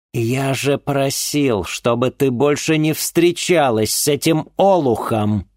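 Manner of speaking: high, slow furious shout; father yelling at his daughter's date; angry father shout. Acted. Father bursts in, scolding.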